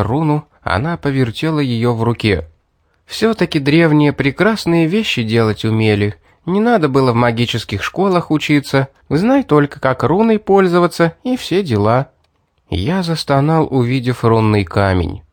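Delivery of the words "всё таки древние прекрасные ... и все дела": put-on lightly raised girl's voice, coaxing; a hint of a sly girl persuading; girl coaxing him down from the ledge, lightly voiced; Mary voiced lightly.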